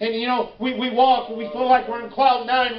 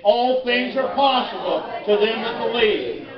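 emphatic, with conviction; like you mean it. Shown as a demonstration. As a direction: lead the congregation as if you mean it. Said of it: "Now say it like you mean it".

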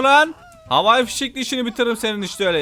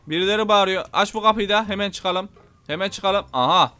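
ordinary talk, nothing marked

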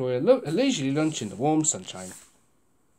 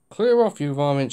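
shout; 2 semitones lower than usual. Acted. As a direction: shoo the gulls off. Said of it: "shouted Mister Grinling".

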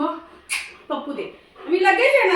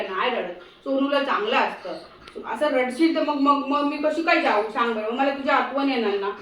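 tender consoling; 4 semitones lower than usual. Real, not acted. Owner consoling her whining dog before the trip, low and tender.

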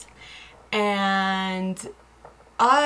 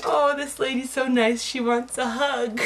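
touched; 4 semitones higher than usual. Retold or imitated. Acting out own mistaken happy thought.

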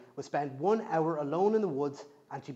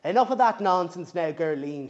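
sharp, louder granny snap; snapping; 7 dB louder than usual. Acted. Granny snaps at moping granddaughter. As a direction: cut her off impatiently. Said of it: "she snapped".

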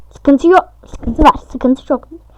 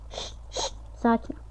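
"sakin ol" and "Sinirlerine hakim ol" said much softer, calming; self-soothing mantra; 2 semitones lower, 16 dB quieter than usual. Shown as a demonstration. Gamer soothing his own anger after dying, soft and calm. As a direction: murmur it to yourself to settle your nerves.

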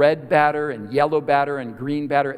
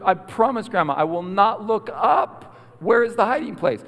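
raised, pleading promise; urgent child; 6 semitones higher than usual. Retold or imitated. Boy about to get caught promises grandma, urgent. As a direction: promise hurriedly, desperate for the answer.

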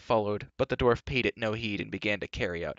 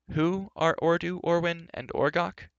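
excited; 8 semitones higher than usual. Acted. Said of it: "excitement and impatience".

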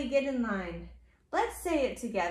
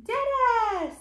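high Dada sliding down; playful drawn-out high cheer; exclaimed refrain; 7 semitones higher, 4 dB louder than usual. Acted. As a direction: sing it out high for baby. Parent cheers book's refrain to child.

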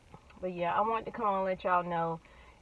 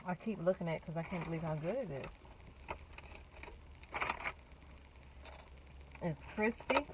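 chewing between words; talking with food; mouth partly full; 2 semitones lower, 12 dB quieter, faster than usual. Real, not acted. Seen 1: Holds sandwich; mouth moves closed and pursed between phrases after bite.

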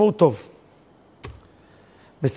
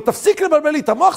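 mock angry snap; 10 semitones higher, 5 dB louder, faster than usual. Son snaps at the volunteer.

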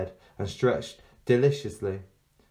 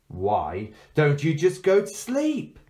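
put-on high, slow, sweet child voice; guileless girl; 6 semitones higher, 4 dB louder, slower than usual. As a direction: coax like an innocent child. Girl tempts Queen.

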